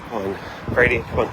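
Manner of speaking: urging the dog along; coaxing dog to come; calling the dog. Real, not acted.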